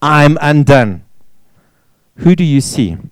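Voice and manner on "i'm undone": slow lament. Retold or imitated. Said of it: "and his response is".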